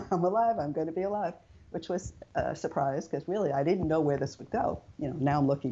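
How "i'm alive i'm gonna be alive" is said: giggling, rising with joy; joyful laugh at still being alive; laughing with relief. Retold or imitated. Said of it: "in my head, I'm going".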